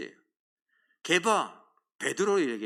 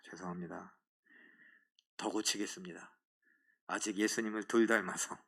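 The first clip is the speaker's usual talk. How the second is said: meek apology; 11 semitones lower, 8 dB quieter than usual. Retold or imitated. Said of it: "사과를 하는데".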